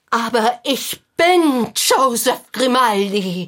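slow, a touch of despair; mild despair. Acted. The sad man telling the doctor who he is, slow and mildly despairing. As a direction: let the punchline sink in slowly. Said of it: "völlig verzweifelt".

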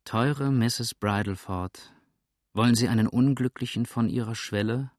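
wheedling appeal to pity; soft, melting. Acted. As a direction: coax with mock-pitiful sweetness. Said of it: "mit sanfter, schmelzender Stimme".

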